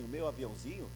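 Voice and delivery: put-on a small boy softly trusting his father; tender child's reply. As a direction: say it with a child's quiet certainty. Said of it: "com um sorriso".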